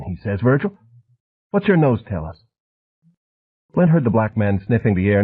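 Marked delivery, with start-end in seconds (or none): 0.4-2.4 lightly higher, soft, a touch quick and wired; soft jabbering hustler. A narrator's reading. Harvard man threatening Flint at the urinal, soft and wired. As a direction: menace wrapped in a soft, chatty voice. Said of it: "soft, almost feminine voice".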